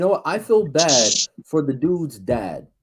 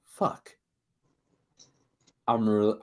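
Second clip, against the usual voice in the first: mock fearful curse; 4 semitones lower, 4 dB quieter, slower than usual. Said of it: "the sheer fear in his voice".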